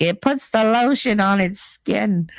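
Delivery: slow, eerie kidnapper voice; quoting the creepy killer; creepy movie killer quote. Retold or imitated. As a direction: drawl it like the horror-movie villain. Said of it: "and be like".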